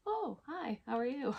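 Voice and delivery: high flustered oh hi after bumping into someone; flustered greeting. Retold or imitated. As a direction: greet them all caught off guard and shy. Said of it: "You're like".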